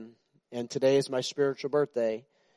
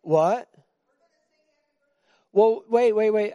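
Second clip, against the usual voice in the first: mock surprise; 7 semitones higher, 5 dB louder, slower than usual. Joking shock at own age.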